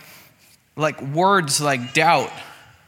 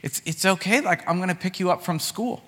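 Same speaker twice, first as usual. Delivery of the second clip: higher, gently reassuring mom voice; soothing mom; 5 semitones higher than usual. Retold or imitated. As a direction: imitate a mother comforting her upset kid. Mom soothing crying child in story.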